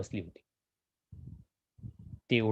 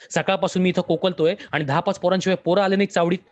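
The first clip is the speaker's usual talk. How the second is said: angry yelling; 4 semitones higher, 3 dB louder than usual. Acted. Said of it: "देवावर ओरडला".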